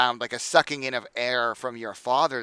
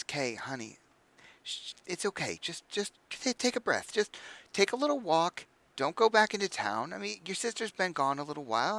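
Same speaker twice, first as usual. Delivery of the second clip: softer and higher, gently calming; soothing mother; 5 semitones higher, 3 dB quieter than usual. Acted. Mother calms her angry son, soft and soothing. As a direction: coax an upset son to breathe. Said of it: "a smile she's shown him before to try to calm him".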